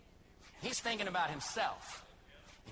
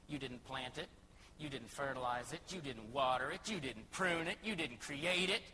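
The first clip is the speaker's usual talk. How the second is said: God rebuking Jonah; 4 semitones lower than usual. Acted. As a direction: list each failure, rising to a firm finish. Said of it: "He said".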